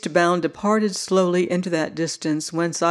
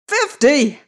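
high, loud indignant shriek; an old man shrieking his real age, higher and louder; 8 semitones higher, 4 dB louder than usual. A narrator's reading. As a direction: shriek it in outrage. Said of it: "shrieked Uncle Hughie".

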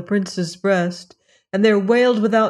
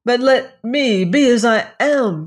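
crying out; 5 semitones higher, 5 dB louder than usual. A narrator's reading. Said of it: "she cried".

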